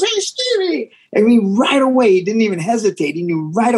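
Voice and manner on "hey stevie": quick greeting. Retold or imitated. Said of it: "He goes".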